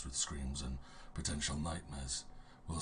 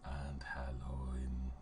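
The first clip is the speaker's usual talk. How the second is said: spooky voice; much slower than usual. Real, not acted. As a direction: greet the players like a hoarse ghost. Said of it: "speaking in his spooky voice".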